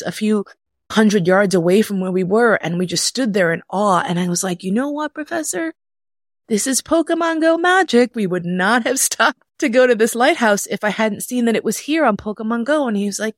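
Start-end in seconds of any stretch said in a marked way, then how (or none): 4.6-12.9 high-pitched, amazed proclamation; excited triumph. Retold or imitated. Teller to professor after seeing whales, excited triumph. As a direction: declare it like proof of magic, voice raised high.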